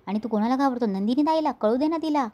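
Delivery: mock defiance with pitch climbing; defiant challenge. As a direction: raise the pitch as if challenging someone. Acted defiant challenge in retold quarrel.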